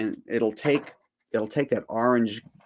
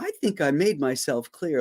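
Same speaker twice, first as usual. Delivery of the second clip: motherly scolding tone, higher pitch; 5 semitones higher than usual. Retelling a movie scene, refusing the neighbors: Carrie Fisher like a scolding mother. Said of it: "like a mother talking to him".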